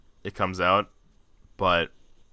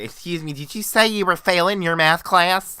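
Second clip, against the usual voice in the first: high-pitched, incredulous parent impression; hammed-up parental disbelief; mock parent; 9 semitones higher, 6 dB louder than usual. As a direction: put on a scandalised parent's voice, pitched way up. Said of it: "watch mom and dad ... be like".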